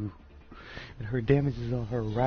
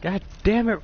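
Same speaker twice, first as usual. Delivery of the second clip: angry shout; 9 semitones higher, 7 dB louder than usual. Real, not acted. Frustrated at teammate in game.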